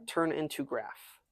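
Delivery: bare, simple words. Pretend. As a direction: dumb it down word by word. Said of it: "Use small words".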